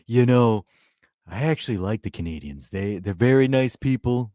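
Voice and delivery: lightly voiced orange-politician parody; orange blond politician. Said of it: "let me turn orange real quick".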